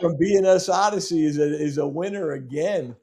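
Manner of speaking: fast, loud, high announcement; excited winner announcement. Real, not acted.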